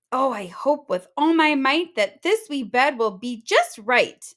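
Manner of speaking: eager Goldilocks, hoping with all her might; hopeful girl. Acted. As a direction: wish hard that it fits.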